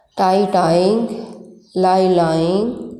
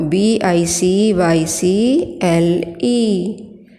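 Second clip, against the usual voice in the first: slow spelling; slower than usual. Shown as a demonstration. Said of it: "tell the spelling of bicycle".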